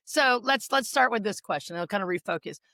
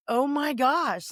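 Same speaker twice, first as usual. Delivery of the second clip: delighted; 6 semitones higher, much slower than usual. Retold or imitated. Full circle moment.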